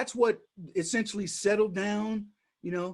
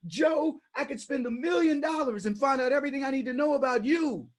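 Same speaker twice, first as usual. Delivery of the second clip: higher, shouting Trump imitation; Trump impression; 5 semitones higher than usual. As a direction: confront Joe like Trump. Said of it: "let me talk to Joe".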